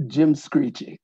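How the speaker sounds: slow, laughing through the phrase; chuckling as he names the phrase. Real, not acted. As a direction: say it slowly, amused, with a chuckle. Host laughing introducing funny phrase.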